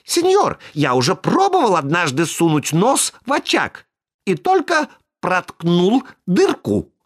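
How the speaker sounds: put-on high, eager little boy's voice; high puppet voice. A narrator's reading. Buratino explains to Karabas about the painted hearth.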